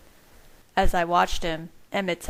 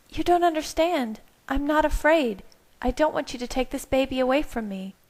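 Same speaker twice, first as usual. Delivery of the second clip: higher voiced, firm pleading; Bella; 8 semitones higher than usual. A narrator's reading. Bella tells Carlisle she won't give up the baby, firmly. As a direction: Bella refusing, higher and determined.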